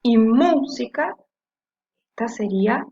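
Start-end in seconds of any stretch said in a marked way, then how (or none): 0.2-1.1 "música" slow, with "mú" leaned on; stressed first syllable. Shown as a demonstration. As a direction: stretch and hit the "mú" of "música". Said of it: "es la que suena fuerte".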